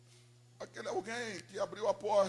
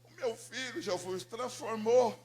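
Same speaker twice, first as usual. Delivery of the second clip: fervent prayer; 5 semitones higher, 9 dB louder than usual. Retold or imitated. Mother praying to Jesus for her lost son, pleading. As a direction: plead with raised voice, drawing words out. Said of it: "aumentava um pouco o volume da voz".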